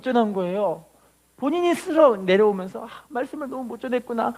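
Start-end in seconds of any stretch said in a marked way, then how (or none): 2.9-4.3 pleading pastor's prayer, rising higher; mildly fretful plea to God; imitating an anxious prayer. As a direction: pastor acting out a worried preacher praying. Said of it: "그 기도를 하는 거예요".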